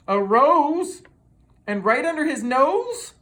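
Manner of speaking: high, loud gasping question; uh-oh, not a rose; high alarmed storyteller; alarmed surprise. A narrator's reading. Narrator builds suspense.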